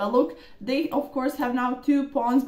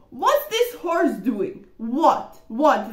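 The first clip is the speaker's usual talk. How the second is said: mock disbelief; 4 dB louder, much slower than usual. Real, not acted. Player mocks the opponent's blunder in amused disbelief. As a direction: draw out the disbelief, then snap what, what.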